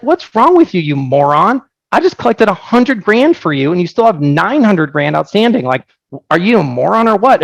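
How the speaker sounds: retold exasperated scolding, pitch jumping high; a half-real outburst at a clueless customer; incredulous mock tirade; mock angry rant. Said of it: "I'd be like".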